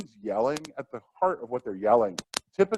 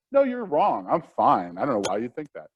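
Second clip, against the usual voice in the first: defensive denial; 5 dB louder than usual. Retold or imitated. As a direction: snap back that you're fine. Teacher denying student's remark.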